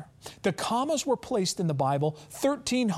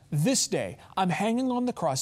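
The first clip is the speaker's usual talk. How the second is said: ordinary talk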